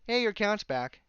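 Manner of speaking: high mock chirp, sarcastic; mock cheerful email. Repeating the email's cheery line to mock it, high mock chirp. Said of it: "another email saying".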